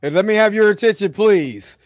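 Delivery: measured mock-formal announcement; NFL draft announcer. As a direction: announce the first pick to a waiting hall. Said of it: "announce that shit like the N F L draft".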